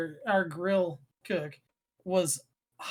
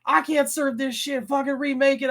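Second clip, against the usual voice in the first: higher, louder retold order; mock yell; 6 semitones higher, 5 dB louder than usual. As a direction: bark it back like the cook. Cook yelling back, retold.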